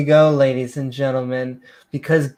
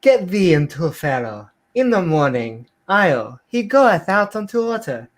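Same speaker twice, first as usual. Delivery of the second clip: put-on hammy King James reading in a muddled accent; mock-solemn scripture in a vague put-on accent; unplaceable put-on accent; 3 semitones higher than usual. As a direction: declaim in a wandering, odd accent. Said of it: "what kind of accent that was".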